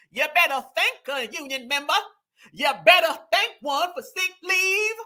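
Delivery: exaggerated, mocking Southern Black accent. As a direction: parody a politician putting on a Southern Black accent. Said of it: "cosplaying Black American women".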